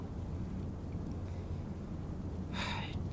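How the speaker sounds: very soft long sigh; weary exhale. Acted. Trainer waiting for recruit to calm down, weary sigh. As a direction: breathe out after a struggle. Releasing breath after the struggle.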